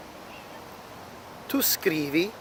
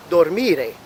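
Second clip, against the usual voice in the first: "dormire" with the weight on MI; stress on second syllable. Shown as a demonstration. Teacher showing how the infinitive sounds, stressing MI in "dormire". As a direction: lean on MI, the middle of "dormire". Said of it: "it's falling on the second syllable".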